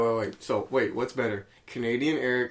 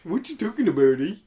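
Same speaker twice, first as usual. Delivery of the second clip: higher mock Canadian voice; Canadian accent; 5 semitones higher than usual. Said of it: "oh, it's Canadian".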